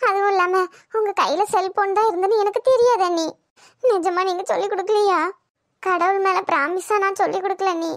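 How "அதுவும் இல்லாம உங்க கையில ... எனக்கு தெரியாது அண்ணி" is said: tearful sister-in-law swearing she never told; tearful plea. Acted. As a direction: sob out a desperate denial. Defending herself while crying.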